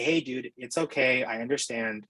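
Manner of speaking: mild understanding tone; gentle self-talk. Shown as a demonstration. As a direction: tell yourself it's fine, gently. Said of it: "but say".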